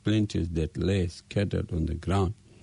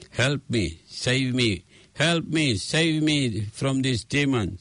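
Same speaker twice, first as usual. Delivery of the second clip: rising, desperate pleas, higher each time; piteous cries for help; 5 semitones higher than usual. Acted. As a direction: call out in growing panic. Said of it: "Sita's piteous cries".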